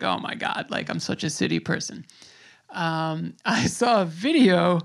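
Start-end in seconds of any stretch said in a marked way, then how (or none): 0.0-2.0 softer, whispered self-mockery; embarrassed whisper. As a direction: whisper it to yourself, ashamed. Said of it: "feeling embarrassed".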